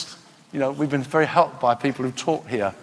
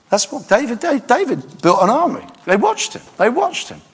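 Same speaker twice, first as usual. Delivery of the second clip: fervent preaching; 9 semitones higher than usual. Real, not acted. Preacher builds to high pitch.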